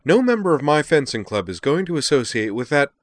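high, loud, spluttering then emphatic tirade; outraged forbidding. A narrator's reading. Liza forbidding her club member to join duelists, outraged. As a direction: lay down the law in fury.

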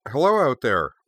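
put-on high, breathy young girl; airy, nervous schoolgirl greeting. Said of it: "said a high-pitched, slightly breathy voice".

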